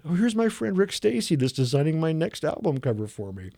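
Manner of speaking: a touch of a gushing star; voicing a veteran singer. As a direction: present him grandly like a hostess. The singer introducing him.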